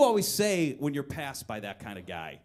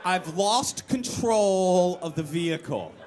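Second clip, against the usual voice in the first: calm deadpan; slower than usual. Retold or imitated. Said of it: "I say".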